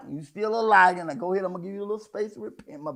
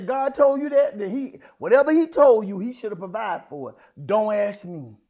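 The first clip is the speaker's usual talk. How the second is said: parents' loud retort; 8 dB louder than usual. Retold or imitated. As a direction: throw it back at her, loudly. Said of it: "And they said".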